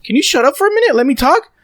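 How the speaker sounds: imitating his own fed-up yell; retold yell. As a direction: shout back to cut her off. Retold shouting match with mother.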